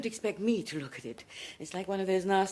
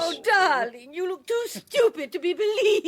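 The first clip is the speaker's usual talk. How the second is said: mocking; 7 semitones higher, 5 dB louder than usual. Mocking the debagged man.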